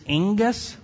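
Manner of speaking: angus said slowly as ING-gus, pitch lifted; careful pronunciation. Shown as a demonstration. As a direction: sound out angus in two syllables, stress first. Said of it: "It's kind of how you say it".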